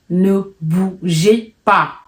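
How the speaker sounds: very slow, drawn-out threat; menacing bandit voice. Retold or imitated. Robber behind them in the night, slow threatening order. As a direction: stretch each word like a slow menace.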